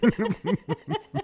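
high, loud wailing that breaks into laughter; mock sobbing wail. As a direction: replay the breakdown as a hammed-up cry. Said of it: "I'm like".

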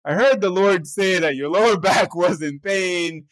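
lightly hammed-up pious announcement; overly spiritual. Younger self asks a stranger to pray, overly spiritual. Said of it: "So I made it all spiritual".

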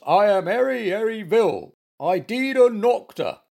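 high, loud woeful bear voice; sad. A narrator's reading. Bear says he needs a doctor, sad high voice. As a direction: complain pitifully, pitched high. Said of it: "in a sad voice".

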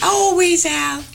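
put-on coy reply in an English accent. Puppet Olivia grants host a kiss, English accent. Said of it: "I just love your English accent".

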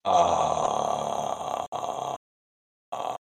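nervous breathy hesitation; frightened stammer. Acted. Pete, threatened by the panda with a zoo photo, stammers in fear. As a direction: freeze up with fear.

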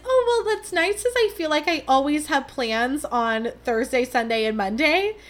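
high, bright-toned "Oh, well" then settling down; mock cheerful reply. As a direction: pretend to be breezy and fine about it. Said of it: "but I was like".

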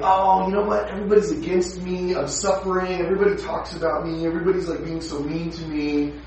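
lightly voiced self-pitying churchgoer; a hint of a whiny victim; whiny complainer. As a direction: complain like someone who feels picked on. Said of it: "somebody who will start saying".

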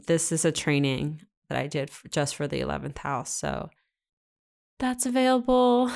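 out of breath after a long list; gasping lightly between phrases; running out of air. Real, not acted. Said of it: "I'm, like, running out of breath".

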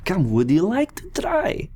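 loud high festive barker call; booming sing song welcome. Acted. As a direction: boom it out like a carnival host. Barker invites to wine.

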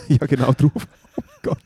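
giggling oh god; laughing. Real, not acted. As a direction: squeal out a laugh then oh god. Laughing at a twitching eye.

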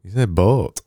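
BOAT with a broad Yorkshire vowel, falling. Shown as a demonstration. Host coaching co-host, broad Yorkshire BOAT. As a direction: insist on BOAT in Yorkshire dialect. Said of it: "You're from Yorkshire".

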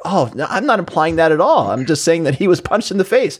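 acted-out backpedaling on the stand; mock protest. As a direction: protest your innocent meaning, lightly acted. Retold witness protesting to lawyer.

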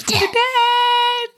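high drawn-out ghostly wail; high spooky wail. Pretend.

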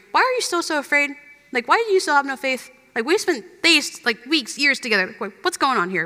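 mock-annoyed teacher scolding; sassy, impatient rebuke, slightly sped up; sassy Jesus. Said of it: "I saw that as Jesus being sassy with them".

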